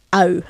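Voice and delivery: "au" opened then rounded as if blowing out a candle. Shown as a demonstration. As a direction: blow out a candle on "au". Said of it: "Nice and open, blowing out a candle".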